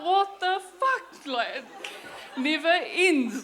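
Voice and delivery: high, loud, drawn-out mock dismay; retold exasperation. Ex-queen handed another title on live TV, comically exasperated.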